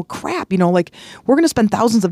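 high sudden cry of frustration; exasperated yelp at broken appliances; upset outburst. Retold or imitated. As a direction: blurt it out in dismay. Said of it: "getting really upset one day".

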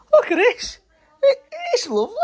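high, gushing squeal; moved delight. Real, not acted. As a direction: gush over it, voice shooting up. Seeing the baby's bedroom.

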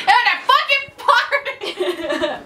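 pissed-off defiance. Retold or imitated. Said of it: "I was so pissed".

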